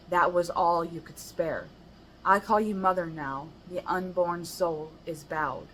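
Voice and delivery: measured, even poem recital; poem reading. Acted. Reading her poem to the viewers, recited evenly.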